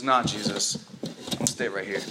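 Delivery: mock lazy nah; lazy mock refusal. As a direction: play her as too comfy to bother. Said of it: "she says".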